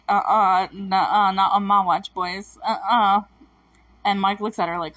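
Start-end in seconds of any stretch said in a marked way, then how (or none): 0.1-3.2 louder, slow no-nonsense tut-tut; sassy warning. Retold or imitated. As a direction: stop the boys with cool attitude. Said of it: "just like".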